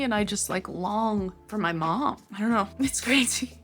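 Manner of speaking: a touch of real tearfulness, laughing it off; holding back tears while talking; close to crying. Real, not acted. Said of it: "I'm gonna cry right now".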